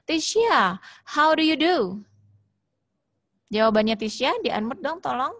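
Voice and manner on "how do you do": "how do you do?" pitched high as a question; high teacher's model question, "how do you do?"; question intonation. Shown as a demonstration. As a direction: ask "how do you do?" in a lifted voice. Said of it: "Jadi naik ke intonasinya".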